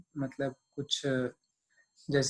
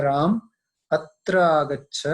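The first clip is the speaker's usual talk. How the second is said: louder call to Ram, come here; 7 dB louder than usual. Shown as a demonstration. Teacher demonstrates calling Ram over, loud call. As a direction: call him over across the room.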